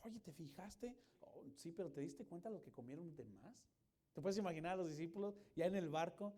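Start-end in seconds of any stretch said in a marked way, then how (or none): 0.0-3.5 hushed, gossiping aside between disciples. Pretend. Disciples whispering gossip in the boat, hushed and sly. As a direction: murmur it like juicy gossip.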